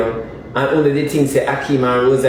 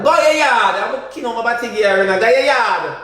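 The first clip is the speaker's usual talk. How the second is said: mock high voice; 7 semitones higher than usual. Mocking voice shouting them away.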